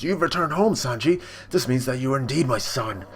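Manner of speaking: lightly voiced grand villain speech; a hint of theatrical grandeur; imperious father. Judge addresses his returning son.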